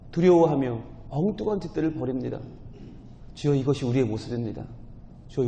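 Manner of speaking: fervent closing prayer. Real, not acted.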